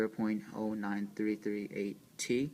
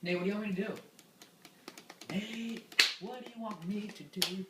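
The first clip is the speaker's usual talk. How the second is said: high pleading; 11 semitones higher, 4 dB louder than usual. Acted. Repeated plea, building up.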